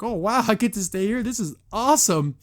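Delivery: lightly hammed-up excitement; mock amazement. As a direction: play up a delighted "wow". Voicing an amazed, delighted character.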